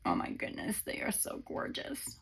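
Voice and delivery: breathless whisper of delight; hushed, admiring whisper; awed whisper. Real, not acted. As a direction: whisper it as if it's too lovely to say aloud. Awed over gifted holy cards.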